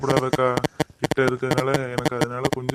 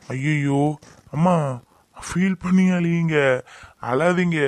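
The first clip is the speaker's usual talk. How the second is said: mock teasing; 3 semitones higher, 4 dB louder, slower than usual. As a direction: tease them in a sing-song fake pity. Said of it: "சும்மா விளையாட்டுக்கு சொன்னேன்க்கா".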